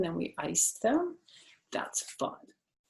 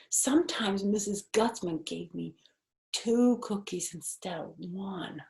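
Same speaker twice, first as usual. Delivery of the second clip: secret whisper; 2 semitones higher than usual. Acted. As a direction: share a secret under your breath. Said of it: "I made my voice kind of secret".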